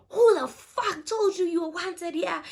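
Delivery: loud, high, indignant challenge; retold angry confrontation. Woman confronting her rival in a retold argument, loud indignation. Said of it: "me and her exchanging words".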